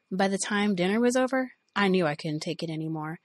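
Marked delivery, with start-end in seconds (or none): none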